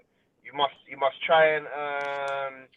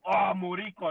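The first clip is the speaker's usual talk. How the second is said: put-on Hispanic accent. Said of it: "she got the accent, the Hispanic accent".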